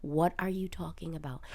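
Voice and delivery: close-mic whisper, right in your ear. Real, not acted. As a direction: whisper to keep from screaming. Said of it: "get close to the mic and whisper".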